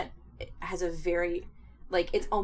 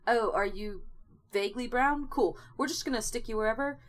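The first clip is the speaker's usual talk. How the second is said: lightly voiced breezy casting person, pitched up at the start; offhand casting director; 3 semitones higher than usual. Mocking the show's careless casting, breezy casting-director voice. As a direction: play a mock-casual casting agent waving it through.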